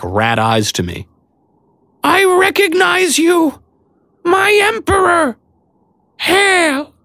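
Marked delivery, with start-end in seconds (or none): 2.0-6.9 squeaky creature shout. A narrator's reading. Maud hails him again.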